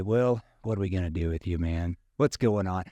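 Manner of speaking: teasing a late client; light ribbing, friendly; playful jab at a latecomer. Shown as a demonstration. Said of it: "You know, playful tone".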